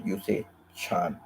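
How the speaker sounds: "chan" spoken slowly, clear ch sound; Thai word chan. Shown as a demonstration. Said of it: "if you're a female".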